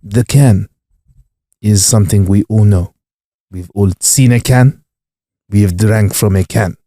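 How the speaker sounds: measured phrases with long pauses; Cantona's speech rhythm. Retold or imitated. Comedian to co-host, spinning a speech about a can, mock-profound oration. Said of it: "He got the rhythm of how to just captivate the room".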